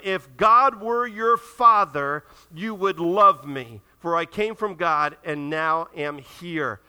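"God" drawn out, slow and weighty; solemn slow emphasis; slow emphatic rebuke. Retold or imitated. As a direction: lay each word down slowly.

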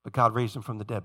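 "God" leaned on, falling and soft; stress on God. Shown as a demonstration. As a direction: drop low and land on "God". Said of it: "this theme constantly".

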